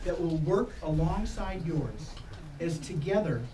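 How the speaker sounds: slow, solemn officiant address; ceremonial reading. Acted. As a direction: speak it like a wedding blessing. Officiant's ceremonial hands blessing.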